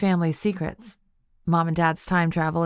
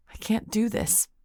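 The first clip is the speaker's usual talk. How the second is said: broken whisper; 3 semitones higher, 5 dB quieter than usual. Acted. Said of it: "I whispered in a broken voice".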